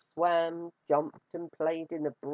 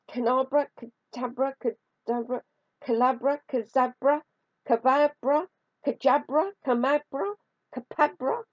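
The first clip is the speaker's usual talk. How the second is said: higher and higher desperate guesses; frantic fumbling; 8 semitones higher, 4 dB louder than usual. A narrator's reading. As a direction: stammer wrong spells in a panic. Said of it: "couldn't remember the magic words".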